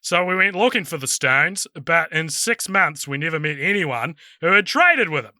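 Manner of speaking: put-on Southern Kiwi accent, lightly done; Alfred's monologue in an Invercargill accent; New Zealand accent. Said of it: "in a New Zealand accent".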